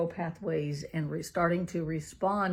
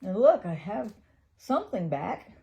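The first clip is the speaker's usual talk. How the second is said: hopeful relief; 3 semitones higher, 5 dB louder than usual. Retold or imitated. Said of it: "I can look back from here now and go".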